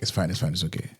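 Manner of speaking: hushed, calming murmur; softly soothing. Retold or imitated. Husband calming his angry wife, hushed and soothing. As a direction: keep it low and placating. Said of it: "just keep quiet and just be like".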